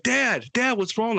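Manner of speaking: put-on high-pitched, frightened kid calling for Dad; scared little kid. Tripping son asking his dad what's wrong, scared and high. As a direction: plead upward like a scared child. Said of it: "scared like a little kid".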